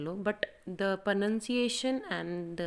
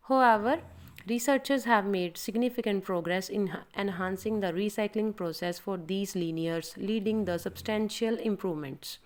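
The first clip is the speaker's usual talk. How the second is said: slow demo read; much slower than usual. Shown as a demonstration. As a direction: demonstrate the recording take, slow and clear. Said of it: "So you can see like this". (धीमा recording demo)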